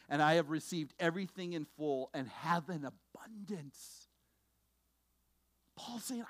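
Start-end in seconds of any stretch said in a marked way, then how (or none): 0.1-4.1 whispered scripture. Acted. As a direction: breathe the verse in a whisper. Reading Paul's words, whispered.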